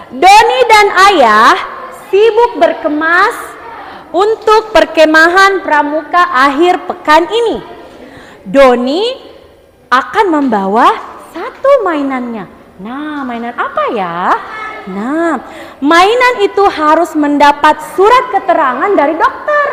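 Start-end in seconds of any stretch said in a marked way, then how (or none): 0.1-12.4 slow, expressive read-aloud with drawn-out phrase ends; reading aloud demonstration. Shown as a demonstration. Teacher shows the class how to read, slow storybook reading. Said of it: "akan baca seperti ini". 15.8-19.7 slow storybook reading; reading aloud demonstration. Shown as a demonstration. Teacher reads a toy story to the class, slow read-aloud. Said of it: "akan baca seperti ini".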